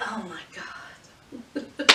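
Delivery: breathy laughing whisper, slow; whispered disbelief. Retold or imitated. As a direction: mouth it in shocked disbelief, laughing. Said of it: "I was like".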